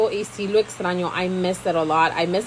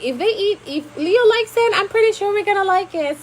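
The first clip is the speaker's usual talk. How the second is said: a light mock of the in-laws, pitched higher; quoting the family; 11 semitones higher than usual. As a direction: playfully voice the family's verdict, higher. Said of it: "So they were like".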